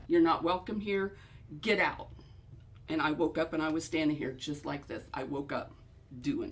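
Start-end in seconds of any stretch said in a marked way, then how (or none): 0.1-2.1 mock yell, louder; retold shout at the presence to leave; ordering the ghost out in a retold yell. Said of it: "I'll yell at it".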